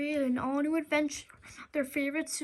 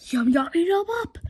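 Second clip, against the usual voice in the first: louder chomping monster chant; hungry toilets; 6 dB louder than usual. Acted. Evil toilets about to eat, loud greedy chant.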